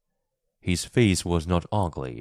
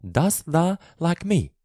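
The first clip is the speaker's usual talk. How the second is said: a light Yorkshire lilt, pitched higher; shy girl trying out Yorkshire dialect; 11 semitones higher, 3 dB louder than usual. A narrator's reading. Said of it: "a question in Yorkshire dialect".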